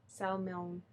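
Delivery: salmon with the L sounded, "sal-mon"; salmon misread as spelt, L and all; old mispronunciation. Shown as a demonstration. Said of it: "how I used to say salmon".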